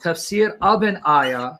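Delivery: slow the words down so he hears them; slow, deliberate restatement. Real, not acted. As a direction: spell it out slowly, stressing "of". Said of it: "listen to yourself slowly".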